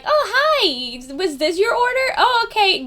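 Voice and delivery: very high, chirpy counter-worker pitch; customer service voice. Shown as a demonstration. Dunkin' worker checking a customer's order, in high customer service voice. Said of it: "that's my customer service voice".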